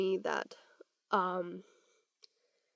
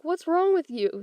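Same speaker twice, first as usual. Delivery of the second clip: high, louder alarmed mother; a mom startled by her crying daughter, raised voice; 8 semitones higher, 5 dB louder than usual. Retold or imitated.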